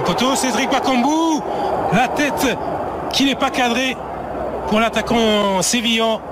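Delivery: excited commentary. Real, not acted. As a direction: stretch the name as the header flies. Near miss called live.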